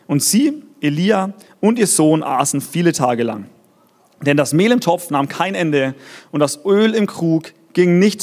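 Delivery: measured, deliberate Bible reading with pauses; scripture reading. Acted. Preacher reads the Elijah story to congregation, measured scripture reading. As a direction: read it out solemnly, phrase by phrase.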